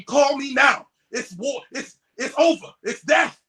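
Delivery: frantic mock yell that ends in a high squeal; frantic producer. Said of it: "He's going crazy".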